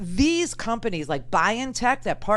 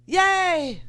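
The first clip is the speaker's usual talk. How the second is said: excited cheer; 9 semitones higher than usual. Real, not acted. Cheering news on the show.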